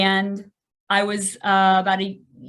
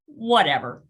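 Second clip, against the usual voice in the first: cocky; 3 dB louder than usual. Retold or imitated. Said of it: "Like a cocky son of a gun".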